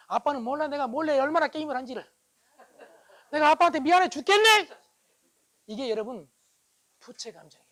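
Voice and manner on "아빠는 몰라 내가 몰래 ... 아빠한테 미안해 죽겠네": high, loud mock remorse; guilty child outburst. Child secretly gamed and feels sorry to dad, exaggerated guilt. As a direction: build to a loud, comic burst of guilt.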